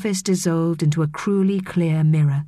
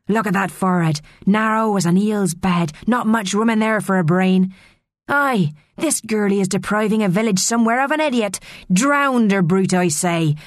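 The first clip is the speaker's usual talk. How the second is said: rustic, jeering mermaid voices; heckling mermaids; 3 semitones higher than usual. A narrator's reading. Mermaids hubbub insults at Maria, jeering scornfully. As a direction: jeer in a coarse country dialect.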